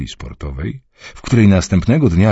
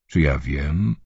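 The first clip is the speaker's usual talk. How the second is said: lower, quieter, evasive shrug; 3 semitones lower, 5 dB quieter, slower than usual. Acted. Son shrugs off his mother.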